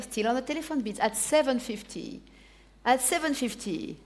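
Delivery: auctioneer calling bids; brisk auction calling; auction bid spotter. Real, not acted. Auctioneer running live bidding.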